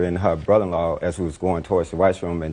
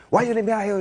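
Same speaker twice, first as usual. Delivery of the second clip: mimicking girlfriend; faster than usual. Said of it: "she said".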